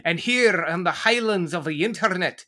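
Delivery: ordinary delivery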